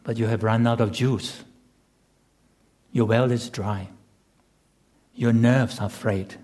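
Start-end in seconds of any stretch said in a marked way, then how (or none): none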